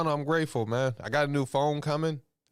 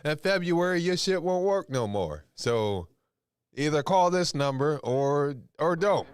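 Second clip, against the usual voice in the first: reading a text message; 5 semitones higher than usual. Retold or imitated. Imitating the phone company's text, mock formal. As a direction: read out the carrier's warning stiffly. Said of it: "got text messages saying".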